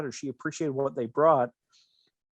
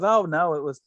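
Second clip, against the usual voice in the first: imitating Rose; 3 semitones higher than usual. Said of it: "And she goes".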